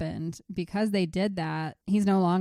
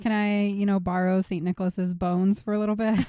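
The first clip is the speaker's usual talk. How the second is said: ordinary delivery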